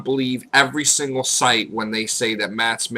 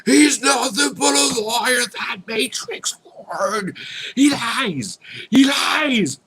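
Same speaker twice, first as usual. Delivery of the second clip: high shouting hater voice; mock a ranting hater, yelling; hammed-up angry hater; 11 semitones higher, slower than usual. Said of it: "people like".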